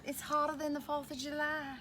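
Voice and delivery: playful put-on southern accent. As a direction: talk like a hot Southerner, for fun. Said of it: "talk in my southern accent".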